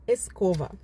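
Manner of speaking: Escova with the B softened to a V; soft Spanish B. Shown as a demonstration. Teacher showing how escoba sounds, B softened like V. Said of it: "se pronuncia escova".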